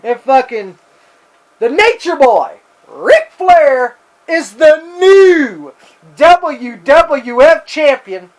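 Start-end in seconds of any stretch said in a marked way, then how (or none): 1.6-8.3 announcer call. Retold or imitated. Calling the title win.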